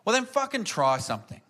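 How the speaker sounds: mock outburst of a fed-up girlfriend; cracked it. Girlfriend cracks after his complaining, exasperated outburst. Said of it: "And she just cracked it".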